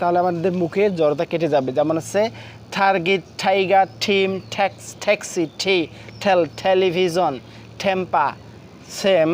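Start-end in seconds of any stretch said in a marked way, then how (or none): 2.8-8.3 word list from "টার্গেট" to "টেম্পা", each T puffed as ঠ; aspirated T drill. Shown as a demonstration. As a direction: recite "টার্গেট, টাইগার" onward in even beats, aspirating every opening T. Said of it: "এক নিঃশ্বাসে উচ্চারণ করবো".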